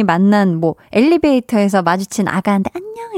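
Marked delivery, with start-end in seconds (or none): 2.7-3.1 very high, soft cooing hi; tiny high greeting to a stranger's baby in the elevator; sweet hello to a baby. Retold or imitated. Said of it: "이렇게 막 했다가".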